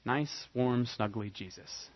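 mock sweet. Mocking soft image of Jesus.

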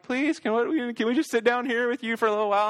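put-on high, pleading child voice; scared kids pleading. Kids asking to sit with dad during storm, imitated scared pleading. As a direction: imitate a nervous kid begging to stay. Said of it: "they're nervous and they're scared".

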